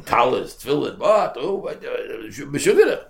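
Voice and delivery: rising to a high, loud cry; mock panicked yell. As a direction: mimic the farmer yelling in alarm. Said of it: "car screaming, yelling".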